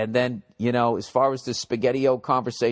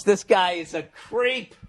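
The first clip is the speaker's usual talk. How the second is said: this guy is a creep, slowly; slow disgusted verdict; 5 semitones higher, slower than usual. Acted. Host judging the letter writer, slow and disgusted. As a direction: drag it out in disgust.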